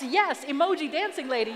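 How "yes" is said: all caps. Retold or imitated. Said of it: "all caps".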